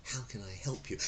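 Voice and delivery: whispered offer of help; whispered customer-service line. Shown as a demonstration. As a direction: breathe it out softly. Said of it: "if you do, "Oh".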